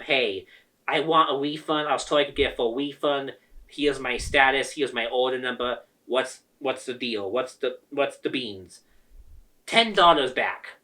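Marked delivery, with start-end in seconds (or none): 0.0-8.8 forced politeness. Retold or imitated. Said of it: "But I'm gonna be polite".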